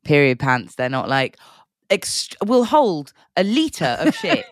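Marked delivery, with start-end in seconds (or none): 1.9-4.5 slow, higher sales-pitch voice; hammed-up product ad announcer; mock advert voice. Mocking period pants advertising.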